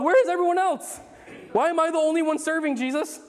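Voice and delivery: mock frustrated servant. Churchgoer setting up chairs alone, mock whiny complaint to Jesus. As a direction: squeak out the complaint of the lone chair-setter. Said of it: "We're like".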